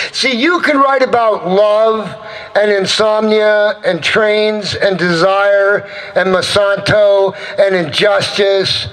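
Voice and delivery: rhythmic rolling poetic list; spoken-word poem. Acted. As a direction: chant the list on a level, driving tone.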